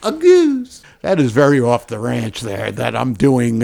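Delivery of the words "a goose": very high squealed goose; Jim Carrey goose. Retold or imitated. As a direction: squeal it like the outtake. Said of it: "I'm doing an outtake".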